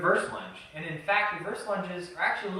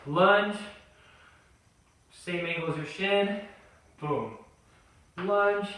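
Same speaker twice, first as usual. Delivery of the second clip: live workout coaching. Acted. Trainer cueing viewers through warm-up lunges, calling each rep. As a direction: drive the set like a trainer calling reps.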